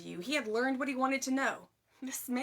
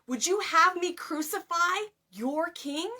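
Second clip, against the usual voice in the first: loud challenge; 7 semitones higher, 6 dB louder, slower than usual. A narrator's reading. Pilate confronts the mob.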